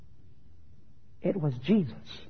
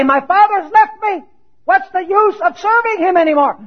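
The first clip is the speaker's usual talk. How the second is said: despairing; 9 semitones higher, 6 dB louder than usual. Pretend. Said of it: "Did Jesus say".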